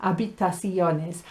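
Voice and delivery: "Habitaciones" beginning on a clear A; silent H. Shown as a demonstration. Teacher letting learners practice, "Habitaciones" with silent H. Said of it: "maybe you need to practice".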